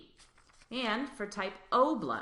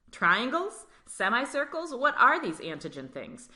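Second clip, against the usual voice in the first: nervous mock panic; 5 semitones higher, 4 dB louder than usual. Scared type O voiced.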